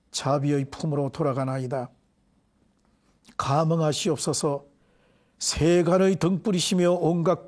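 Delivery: solemn measured prayer recitation; Buddhist prayer. Acted. Monk leading the congregation in prayer, solemn recitation. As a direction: intone it as a devotional prayer to Buddha.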